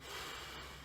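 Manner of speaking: long soft exhale; quiet, drawn-out sigh. Retold or imitated. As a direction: let out a long breath. Stunned after what she heard.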